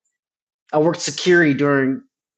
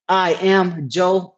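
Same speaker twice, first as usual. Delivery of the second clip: confident claim; 3 semitones higher, much slower than usual. Shown as a demonstration. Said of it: "a statement".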